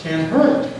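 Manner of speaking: a father gently comforting his daughter over her dead turtle; gentle, empathetic. Shown as a demonstration. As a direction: say it slowly and gently, staying with the child's grief. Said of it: "helps her to be with her feeling".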